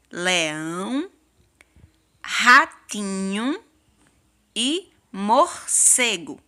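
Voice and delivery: LEÃO, RATINHO, MORCEGO very slow with stretched syllables; slow careful reading. Shown as a demonstration. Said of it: "Vamos ler as palavras".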